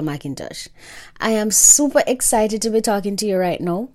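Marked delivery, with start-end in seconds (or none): 1.2-3.9 bright rising lift on super, eager voice; super excited. Real, not acted. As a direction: let the excitement ring on super. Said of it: "you can hear it in my voice".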